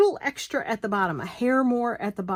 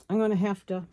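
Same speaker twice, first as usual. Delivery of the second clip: mouth full; faster than usual. Real, not acted. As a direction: needle held in the mouth. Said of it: "I got the needle in my mouth".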